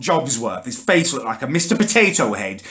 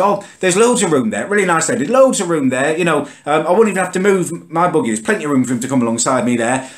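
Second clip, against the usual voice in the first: helpful lady on bus; 4 semitones higher than usual. Retold or imitated. Other mum offers room.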